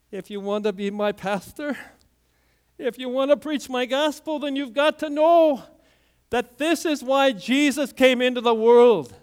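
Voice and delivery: building divine command. Retold or imitated. God speaks to the pastor.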